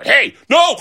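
high, alarmed cry; hamburger's mock protest. Hamburger shocked by broccoli juice, high alarmed cry.

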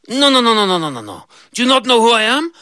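high goat, indignant. Acted. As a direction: goat scoffing at her.

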